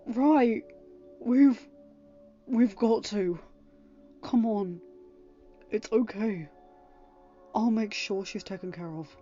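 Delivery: soft reassurance. Acted. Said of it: "Henry said softly".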